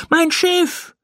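very high, drawn-out cry of dismay; horrified cry. A narrator's reading. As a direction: call out in alarm, stretching the words. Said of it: "rief Pauli erschrocken".

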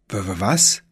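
frightened stutter; stammering. Acted. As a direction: stumble over the word in fright. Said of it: "stammelte Tim".

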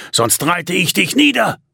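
angry yelled threat. Acted. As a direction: threaten to ride him down. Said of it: "schrie Simon".

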